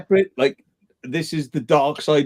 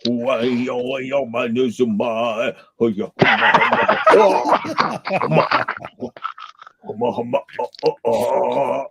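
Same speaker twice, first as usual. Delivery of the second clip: mock lament; 4 semitones lower, much slower than usual. Imitating man lamenting.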